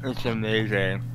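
talking around a mouthful of ice. Real, not acted. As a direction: say it with ice on your tongue. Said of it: "said with a lot of sarcasm".

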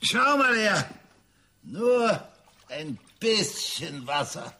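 coaxing sing-song to a pet; talking to a dog. Acted. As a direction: sweet-talk the dog closer. Man coaxing his dog.

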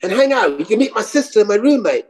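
high-pitched woman making an invitation; Melissa. Retold or imitated. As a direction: invite him over in a high, lilting voice. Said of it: "It's like".

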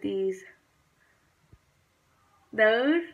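talking while showing teeth; finger pulling lip down. Real, not acted. Seen 0: Finger pulls lower lip down to show braces, 1.0–4.2 s.

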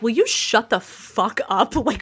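a half-acted snap, pitch slightly up; mock angry snap. Sophie snapping at Jenny in a mildly acted angry voice. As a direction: bite back at the cheerful friend, lightly played. Sophie snaps at her friend.

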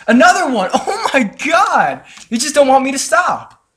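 laughing excitement. Real, not acted. Laughing at another rare drop.

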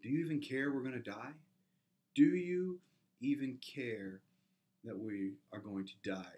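hammed-up plea to a sleeping Jesus; desperate disciples. Disciples shaking Jesus awake, a mild desperate cry. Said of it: "the disciples shake him up and say".

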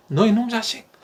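a hint of an angry father shouting; mock angry yell. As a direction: playfully bark it like a furious dad. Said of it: "문 쾅 닫고". (아빠가 아이에게 화내는 시늉, 가볍게 흉내 낸 고함)

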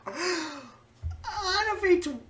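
slow words broken by laughter; real laughter; laughing. Real, not acted. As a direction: laugh through it.

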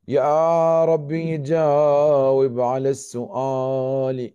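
pleading. Acted. Pleading prayer to God, drawn out.

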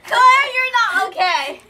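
laughing. Real, not acted. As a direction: talk through tears of laughter. Laughing at friend's sour face.

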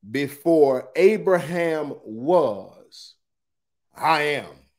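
very slow, stretched-out pronouncement; momentous declaration. Acted. Jesus answers the doubters about Abraham, slow momentous declaration. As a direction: draw out each word, then pause before the last.

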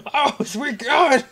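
slow, high laughing cry; laughing shriek. Real, not acted. Gamer laughing at his own scare, slow laughing cry. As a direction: stretch it out through laughter.

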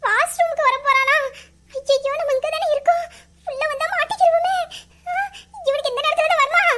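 half-crying comic panic; comic panicked whine; panicky whimper. Acted. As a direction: whimper in mock fear. Hiding woman panics.

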